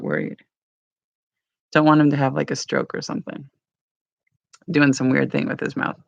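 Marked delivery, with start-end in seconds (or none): none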